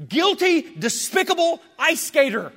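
loud, high condemning yell; shouted accusation of guilt; accusing shout. Acted. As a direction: hurl the verdict like a judge. Accusing blood voiced as a scream.

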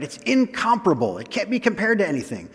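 imitated excitement. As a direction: voice an eager writer who contradicts himself, dropping into a quick aside. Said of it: "Paul is so excited".

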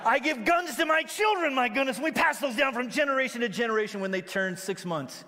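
high, loud rush that settles down; hammed-up bragging; mock proud boast. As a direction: play up the proud gun owner, starting high. Mock boast of a gun owner.

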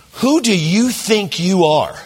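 slow, high indignant challenge; drawn-out offended question; mock indignant. Friend rebuking the pastor, slow and indignant. Friend's angry retort retold.

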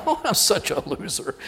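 laughing through the words; retold helpless laughter; acted laughing. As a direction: chuckle at yourself in mock self-pity. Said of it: "I'm just laughing".

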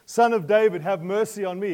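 high, loud desperate cry. Acted. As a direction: call out for mercy across the crowd. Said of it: "He began to cry out".

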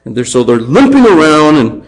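ordinary talk, nothing marked

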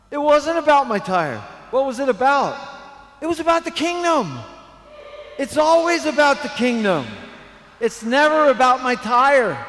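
high, loud preaching at full force. Real, not acted. Preacher telling the congregation what the flat tire meant, forceful preaching. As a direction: drive the point home from the pulpit.

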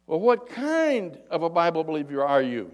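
loud acted call to someone above; big long-distance voice; yelling up. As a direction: holler up, stretching the question. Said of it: "He yells up at him".

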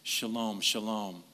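"Shalom, shalom" said gently, stress on the end of each; repeated Hebrew word. Shown as a demonstration. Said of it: "That's how they say peace".

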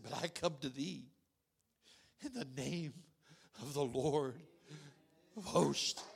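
low, soft King James words; hushed biblical quote. Retold or imitated. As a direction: speak it quietly, like scripture. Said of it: "He said".

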